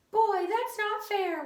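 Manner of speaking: high, slow whine; whining pigtail. A narrator's reading. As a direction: draw it out like a sulky little voice. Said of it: "whined the pigtail".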